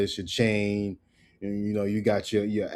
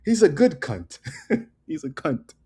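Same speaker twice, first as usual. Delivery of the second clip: imitating Australians; 6 semitones higher than usual. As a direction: toss it off like a cheeky Aussie mate. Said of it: "They be like".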